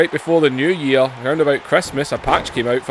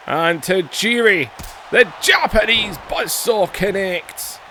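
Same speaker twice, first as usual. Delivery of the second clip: play-by-play. Acted. Narrating Tajiri's win in his game, play-by-play. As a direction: hype each kick like ringside commentary.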